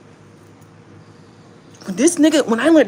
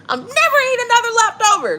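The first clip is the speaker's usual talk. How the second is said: laughing quote; 14 semitones higher, 4 dB louder than usual. Retold or imitated. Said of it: "You said".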